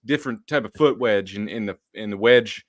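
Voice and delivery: put-on a light Southern accent for Richard Hightower; quoting a friend with a touch of Southern accent. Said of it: "I gave him a Southern accent".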